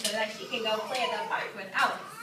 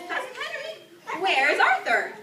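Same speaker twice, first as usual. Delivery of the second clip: accusing demand; 9 semitones higher, 5 dB louder than usual. Acted. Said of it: "she says".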